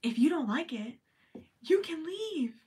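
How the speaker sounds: breathy whispered you can leave; whispered brush-off. Real, not acted. Telling critics to leave, in a whisper. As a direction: toss it off under your breath. Dismissing critics of her brand.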